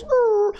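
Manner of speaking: high little dog grumble; mock dog growl. Speaker imitating the neighbor dog, a high growl. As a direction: voice the dog's grumble at the fence.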